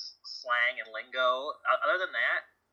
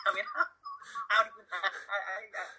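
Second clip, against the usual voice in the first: cracking up mid-sentence, higher pitch; laughing; 8 semitones higher than usual. Real, not acted. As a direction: stammer through real laughter. Cracking up while talking.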